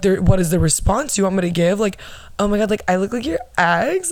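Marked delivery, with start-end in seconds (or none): 2.4-4.1 mock-thrilled gush, rising at the end; sarcastically gushing, pitch climbing on the last words; mock flattered. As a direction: play fake delight at a bad compliment. Acting out the expected flattered response.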